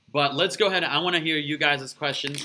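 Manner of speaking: eating while talking; mouth full. Real, not acted. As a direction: talk through a mouthful. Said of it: "I'm sorry I'm eating".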